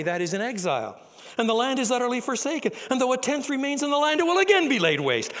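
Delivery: loud, high, relentless pronouncement; God's judgment. Acted. God answering Isaiah with loud, relentless doom. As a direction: pile up the ruin, building.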